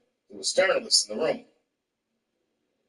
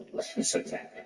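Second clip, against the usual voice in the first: softer, disbelieving echo; incredulous query; 6 dB quieter than usual. Retold or imitated. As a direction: question the word "alleged" in disbelief. Disputes the headline's wording.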